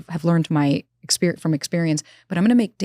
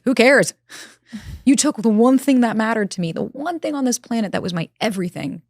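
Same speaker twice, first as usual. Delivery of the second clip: defiant outburst; 5 semitones higher than usual. Retold or imitated. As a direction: throw it out, half laughing in defiance. Defiant outburst after losing dog.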